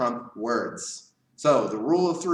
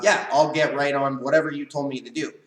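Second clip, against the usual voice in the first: bad tone; 5 dB louder than usual. Shown as a demonstration. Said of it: "even if I mean the other thing".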